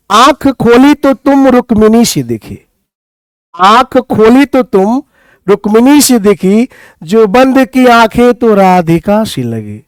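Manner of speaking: lyrical couplet, lines repeated with pauses; poem recital. Acted. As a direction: savour each line of the couplet.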